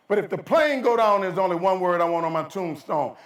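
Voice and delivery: high, loud start, settling into the line; telling his wife about the plane; loud dramatic setup. Retold or imitated. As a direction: build suspense for the punchline. Husband answers worried wife.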